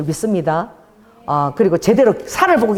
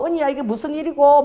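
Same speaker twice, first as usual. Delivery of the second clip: higher-pitched amazed Busan woman; imitated Busan dialect; 5 semitones higher than usual. Healed owner telling kitchen staff, lightly imitated in Busan dialect. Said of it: "부산 사투리로".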